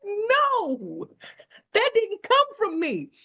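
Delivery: the other person. Retold or imitated. Caller denies sending wrong information.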